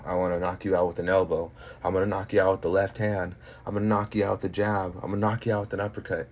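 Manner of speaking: rising, fast cocky brag; cocky boxer boast. Real, not acted. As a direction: fire off the boasts. Fighter boasting knockout plans.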